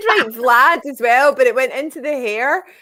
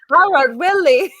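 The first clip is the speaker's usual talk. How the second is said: 1 mock English accent; 4 semitones higher, 3 dB louder, slower than usual. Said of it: "painfully English".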